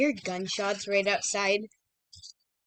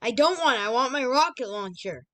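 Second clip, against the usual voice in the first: whiny; 2 semitones higher, 4 dB louder than usual. Real, not acted. Whining for weapon.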